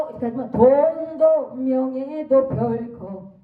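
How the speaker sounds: 돈도 hit firmly; stress on 돈도. Shown as a demonstration. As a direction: stress the first word 돈도. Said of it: "돈을 강조해서 돈도".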